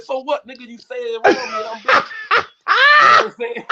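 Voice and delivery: high, loud indignant comeback into a laugh; loud mock confrontation; retold comeback. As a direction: throw the comeback back at him.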